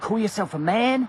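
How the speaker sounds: put-on American accent. Quoting what boot camp instructors said right up in their face, in an American accent. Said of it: "American accent slowly going".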